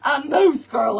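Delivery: high and loud, breaking into laughter; loud laughing retort, high on girl; laughing retold comeback. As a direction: shout the punchline through laughs. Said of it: "I said".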